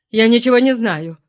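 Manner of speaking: выше, на грани истерики; сорвись в паническое отрицание; истерично. A narrator's reading. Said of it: "Голос Промеро стал истерическим". (истеричным, испуганным голосом)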